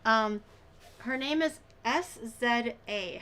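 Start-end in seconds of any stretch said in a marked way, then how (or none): 1.8-3.2 S Z A slowly, as three letters: ess, zed, ay; spelled out. Shown as a demonstration. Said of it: "How do you pronounce it".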